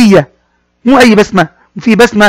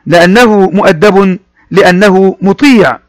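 slow model reading; slower than usual. Shown as a demonstration.

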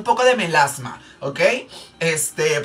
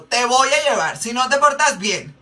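put-on high sing-song threat to the kid; mock threatening mom; 6 semitones higher than usual. Makeup artist acting the mom threatening the child, high put-on voice. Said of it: "esa voz de que".

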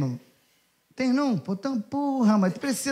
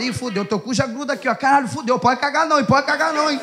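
mock panic; 3 semitones higher than usual. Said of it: "tu fala".

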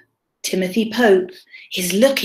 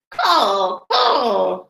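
lightly imitated crow call; crow cawing. Reader voices the crow for children, lightly imitated cawing. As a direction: give two mild crow caws. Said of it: "says the crow".

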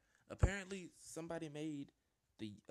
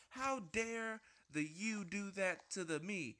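mock indignation; 4 semitones higher, 5 dB louder, slower than usual. Mock outrage at teamers.

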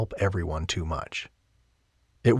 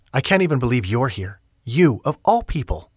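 lightly voiced heroine; 5 semitones higher, 5 dB louder than usual.

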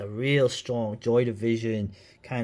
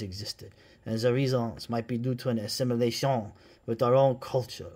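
a hammed-up, badly faked French accent. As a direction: read the quote in a mock French accent. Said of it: "That was a horrible French accent".

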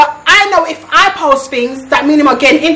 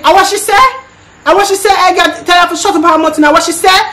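higher, mocking the boyfriend's raised voice; mock angry boyfriend; 5 semitones higher than usual. Mimicking boyfriend demanding what the friend said, angrily. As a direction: retell his angry outburst, pitched up. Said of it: "Dwayne's getting mad saying".

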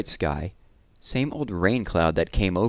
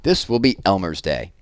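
excited announcement; 3 dB louder than usual. Acted. Elephant proclaims Elmer's Day.

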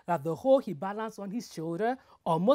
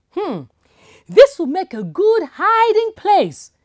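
sly delight; 9 semitones higher, 12 dB louder than usual. Acted. Aldu delighted at hiding place.

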